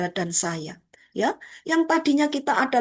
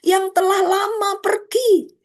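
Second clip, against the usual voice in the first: servant announcing; slower than usual. Acted. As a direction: announce the news with slow weight. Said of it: "hamba itu berkata".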